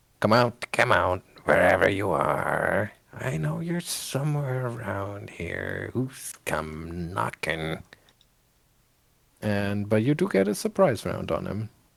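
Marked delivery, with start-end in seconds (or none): 0.2-7.8 raspy mumble, half under the breath. Game master voices a character mumbling to himself: raspy mumbling voice. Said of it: "he just mumbles to himself with a sort of raspy voice".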